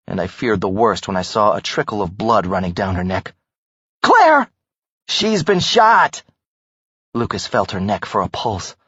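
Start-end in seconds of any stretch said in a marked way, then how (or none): 4.0-4.5 loud high cry of her name; alarmed cry. Acted. Friend sees Claire shot. 5.1-6.2 slow, higher cry of horror; stunned disbelief, drawn out; horrified. Acted. Discovering friend shot.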